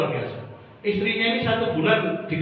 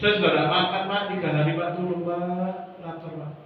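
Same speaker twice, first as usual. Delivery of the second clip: begging beggar; 3 dB quieter than usual. Acted. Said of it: "ada orang tok-tok di depan rumahnya".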